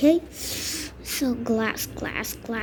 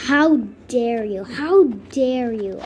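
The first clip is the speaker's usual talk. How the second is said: mock indignation; 3 dB louder than usual. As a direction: act affronted, stretching it out. Mock outrage at purple paint job.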